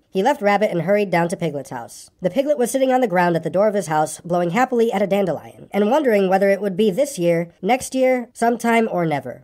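story narration. A narrator's reading. Reader telling of Pooh's coming adventure, story narration. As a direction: read it to children as a bedtime tale.

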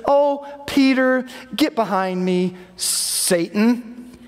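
gentle, slow, fond rebuke; a mild loving scold to a close friend; lovingly. Retold or imitated. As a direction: tease a friend tenderly, easing off slowly. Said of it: "lovingly says".

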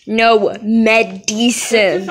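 slow demonstration. Shown as a demonstration. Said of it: "It's pronounced medicine".

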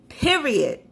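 put-on sassy city girl catchphrase, pitch dropping steeply. Vlogger capping her sign-off motto, city girl voice. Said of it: "in my city girl voice".

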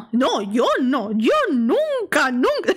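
exaggerated, drawn-out protest of innocence; mock denial. Ileana, caught out, answers Pochi, hammed-up denial. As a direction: overplay the denial, stretching each word.

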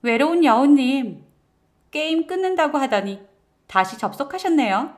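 high, playful teasing voice; chirpy game friends. Acted. Game friends greet wife's account, high playful teasing. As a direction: tease a returning gamer in singsong high tones.

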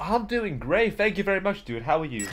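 chirpy fake American accent, starting high; put-on American accent. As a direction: greet them as a polite fake American. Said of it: "You have a lovely accent".

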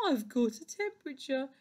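hissing snake. A narrator's reading. Poorly Snake tells the doctor his complaint, hissing. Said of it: "hissed Snake".

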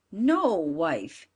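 a pleading woodcutter; firm father. Acted. Father refuses.

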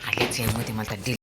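usual speaking voice

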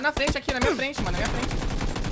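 high, loud urgent callout. Real, not acted. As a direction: call out the enemy fast.

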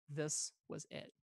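quiet, slow, reverent; hushed awe. A narrator's reading. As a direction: let it land softly in wonder. Awed realization of the lightsaber.

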